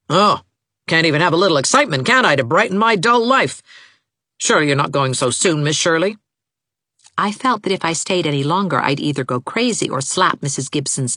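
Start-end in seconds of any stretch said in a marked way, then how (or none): 0.1-6.2 put-on peevish old woman, sarcastic and put-upon; fretful old mother voice; querulous mother, aggrieved. A narrator's reading. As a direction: complain like a bored, martyred matriarch.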